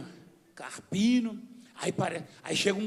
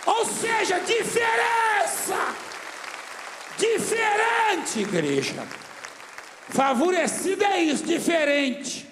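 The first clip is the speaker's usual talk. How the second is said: high, loud, stretched-out proclamation; preaching shout; 9 semitones higher, 5 dB louder, slower than usual. Real, not acted. Pastor explains favoured to his church, preaching shout. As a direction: belt out the key word slowly.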